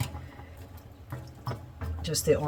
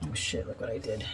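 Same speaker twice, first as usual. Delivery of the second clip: holding breath; 6 semitones lower, 9 dB quieter than usual. Real, not acted. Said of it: "And I'm holding my breath".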